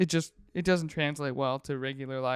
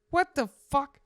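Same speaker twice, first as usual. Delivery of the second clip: high-pitched incredulous outburst; retold stunned exclamation, pitched way up; shocked teacher; 10 semitones higher, 4 dB louder than usual. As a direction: imitate a teacher's baffled disbelief. Teacher's startled reaction acted out.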